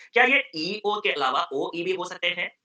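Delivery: slow, drawn-out teacher question; slow probing question. Shown as a demonstration. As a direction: lead the student slowly. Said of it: "teacher probes slowly". (धीमा, सोचने वाला सवाल)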